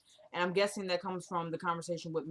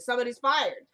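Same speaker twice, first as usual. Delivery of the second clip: louder mock firing of herself; mock outburst; 4 semitones higher, 6 dB louder than usual. Real, not acted. Scolding herself loudly over her flubbed quote. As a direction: declare it loudly, half joking. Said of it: "I just ruined it".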